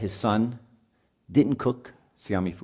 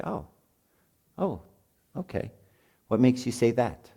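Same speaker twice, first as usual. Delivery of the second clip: calm response; 3 semitones higher than usual. Shown as a demonstration. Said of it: "we have to be very calm and listen".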